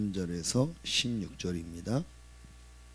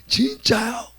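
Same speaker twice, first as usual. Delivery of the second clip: put-on high, loud delighted little boy; excited child; 12 semitones higher, 8 dB louder, slower than usual. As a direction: sound thrilled like a child. Son amazed. (신난 아이의 높고 큰 목소리)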